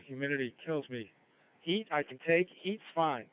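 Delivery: ordinary talk, nothing marked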